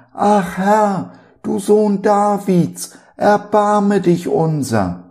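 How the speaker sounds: high, loud and slow pleading cry; desperate crying out. A narrator's reading. Two blind men beg Jesus for mercy, high pleading cry. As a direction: call out, begging for mercy. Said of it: "schrien sie und sprachen".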